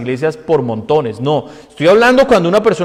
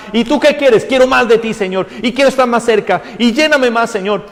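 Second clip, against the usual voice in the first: longing prayer; 7 semitones higher than usual. Retold or imitated. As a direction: beg for more of God. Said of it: "el deseo por Dios tiene que arder".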